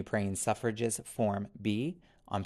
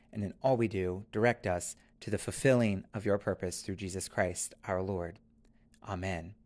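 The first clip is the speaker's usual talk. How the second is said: prayer. Acted. Collect prayed aloud.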